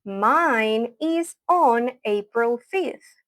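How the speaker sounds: very slow, spaced-out teacher's model; slow model pronunciation. Shown as a demonstration. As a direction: leave room between words for learners. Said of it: "voy a hablar lento".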